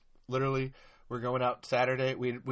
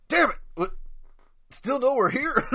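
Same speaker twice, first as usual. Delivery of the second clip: loud, high annoyed yell; frustrated shout; 12 semitones higher, 7 dB louder than usual. Acted. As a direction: curse it out loud. Acting out a movie scene.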